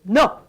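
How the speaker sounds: "No" alone, punched; emphatic model syllable. Shown as a demonstration. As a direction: drive out "No" as the stressed syllable. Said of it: "I wanna hear more of a no".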